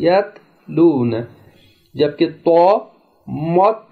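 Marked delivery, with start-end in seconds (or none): 0.1-1.2 यत लून with a light thin t, no jolt; soft thin ta. Shown as a demonstration. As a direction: keep the t in यत लून soft and fine. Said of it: "बिल्कुल नरम, soft और बगैर झटके".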